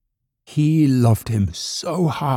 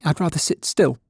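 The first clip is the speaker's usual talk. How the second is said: higher little rabbit voice; reluctant little rabbit; 7 semitones higher than usual. A narrator's reading. Toy rabbit refusing to dance, reluctant high voice. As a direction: make an excuse in a small, high voice.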